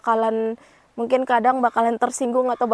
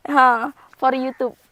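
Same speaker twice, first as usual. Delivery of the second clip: slow, louder, laughing words; laughing explanation; 5 dB louder, slower than usual. Real, not acted. Slowly explaining to mother-in-law, laughing. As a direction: spell it out slowly through a laugh.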